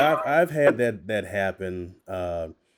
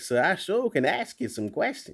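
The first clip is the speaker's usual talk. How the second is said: higher, lighter Southern dialect; 10 semitones higher, 4 dB quieter than usual. Shown as a demonstration. Voice actor showing what a Southern script gets, Southern dialect. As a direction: play up a polite Southern accent. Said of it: "a script for Southern dialect".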